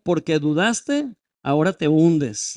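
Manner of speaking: slow, drawn-out imitation of scolding; lightly scold, stretching the words; mild mock rebuke. Preacher showing what Jesus did not tell Peter, mild mock rebuke. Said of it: "no reprendió su incredulidad".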